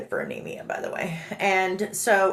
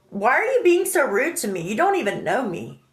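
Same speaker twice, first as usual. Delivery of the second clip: retold protest; 3 semitones higher than usual. Asking the friend why he's rude, indignant. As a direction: plead against rudeness, acted out. Acting out her protest to Rob.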